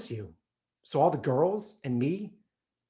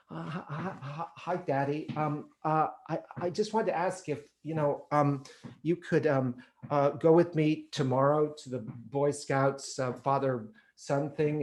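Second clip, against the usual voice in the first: put-on timid stammering boy. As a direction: stammer it out, scared to ask. Timid boy asks father.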